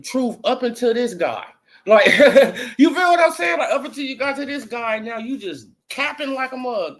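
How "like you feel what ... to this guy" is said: high laugh into the question. Real, not acted. Laughing at rival fans' double standard, real laughter.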